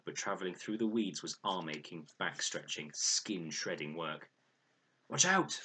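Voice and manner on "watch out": high, loud sudden shout; sharp warning call. A narrator's reading. Girl on the raft warns Fred of danger overhead, loud call. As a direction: yell a warning before it's too late. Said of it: "called Leela".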